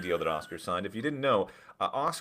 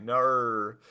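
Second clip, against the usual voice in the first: Australian Nar; 2 semitones higher than usual. Shown as a demonstration. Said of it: "I can only say".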